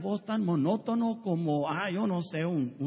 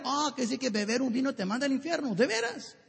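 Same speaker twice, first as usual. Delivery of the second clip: mock disbelief; 5 semitones higher than usual. Mocking reply in dialogue.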